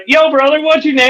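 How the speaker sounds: high-pitched hail to a stranger; calling out a challenge. Retold or imitated. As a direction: accost him with mock friendliness. Skit character accosting the man.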